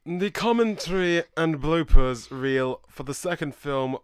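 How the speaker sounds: slow, lightly posh reading. Shown as a demonstration. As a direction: read it like a lightly posh gentleman. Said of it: "I should do my posh voice".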